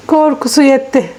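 amused, laughing stress on Korkusu; amused repeat. Real, not acted. (Korkusu kelimesine gülerek vurgu)

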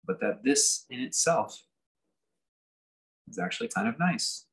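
unhurried meditation leader, long pauses between phrases; guided meditation. Real, not acted. Teacher settling listeners into just being here, guided meditation. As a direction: ease them gently into sitting, phrase by phrase.

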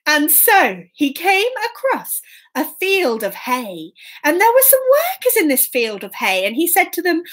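lilting, emphatic storyteller; children's story narration. A narrator's reading. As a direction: savour the key words for young listeners.

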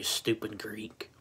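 "stupid Greek" whispered under the breath; whispered insult. Real, not acted. Vlogger whispering a jab at the Greek kid. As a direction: breathe the insult out, slow and voiceless.

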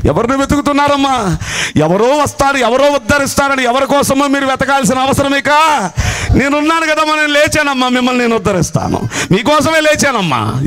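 fervent sermon climax; rising preaching fervor. Acted. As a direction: lift it up with fervor.

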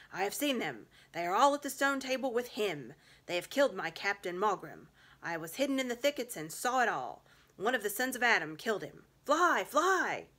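breathless, urgent and loud, rising to a cry; panicked wolf. Acted. Wolf warning the witch the enemy is coming, panicked shout. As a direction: blurt the news in alarm, then cry out.

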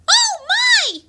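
high-pitched shocked exclamation; pretend shock. Reacting to the Coke bottle mishap, high mock shock. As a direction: gasp it out high, playing aghast.

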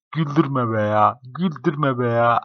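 slow words pushed through giggles; laughing while talking. Real, not acted. Telling a friend to stop making him laugh, giggling. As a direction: try not to crack up, fail.

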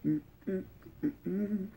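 humming while chewing food; closed mouth with food; mouth full, chewing. Real, not acted. Seen 0: Bites taco at -7, mouth closed and chewing during hums.

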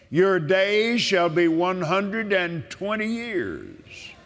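slow, emphatic promise; scripture proclamation. Acted. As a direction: proclaim it over the listener.

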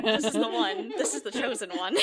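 gleeful teasing through laughter; laughing. Real, not acted. Host teasing the player about the blooper clip, laughing.

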